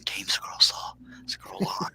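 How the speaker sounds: hushed ASMR-style whisper. Shown as a demonstration. Host demonstrating whispered show name for the stream, whispering. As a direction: whisper it softly, barely voiced. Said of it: "one of us will be whispering".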